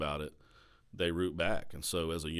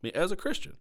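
"Christian" pitched way up, rising in disbelief; incredulous emphasis; 13 semitones higher, 3 dB louder than usual. Real, not acted. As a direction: stress "Christian" high as if you can't believe it. Repeats in disbelief.

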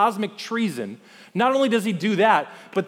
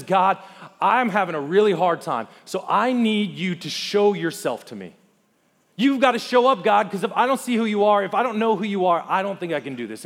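Moses pleading with God; 2 semitones higher, 3 dB louder than usual. Acted. Worn-out leader begging God to show up, urgent plea. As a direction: plead as a leader at the end of his rope, mildly dramatised. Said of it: "Moses is just having a hard day".

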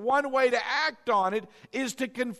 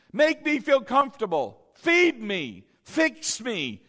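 whiny body voice; 3 dB louder than usual. Retold or imitated. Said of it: "your body sure does like".

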